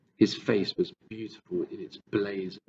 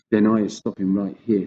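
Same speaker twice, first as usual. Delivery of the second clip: sharply; 10 dB louder than usual. Acted. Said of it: "said the B F G sharply".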